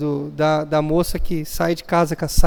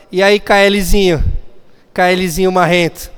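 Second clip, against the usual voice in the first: cheeky greeting. Retold or imitated. Teen casually greets the pastor at his house, cocky.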